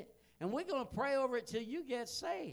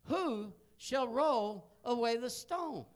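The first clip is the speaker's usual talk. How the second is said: scripture reading; 4 dB louder than usual. Acted. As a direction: read the verse out with weight. Reads scripture aloud.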